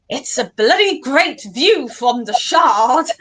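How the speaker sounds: lightly mimicked BBC presenter's accent, drawn out slowly; imitated presenter's accent. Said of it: "sounded funny in the accent that the, the presenter was talking in".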